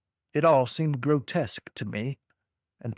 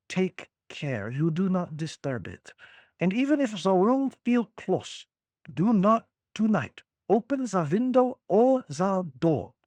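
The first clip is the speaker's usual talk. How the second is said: put-on light German accent, careful warning; a hint of a German accent, warning gently. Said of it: "bad German accent".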